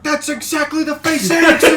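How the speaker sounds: high, loud burst of recognition; excited exclamation. Retold or imitated. Friend retelling how both blurted it out in the car, excited.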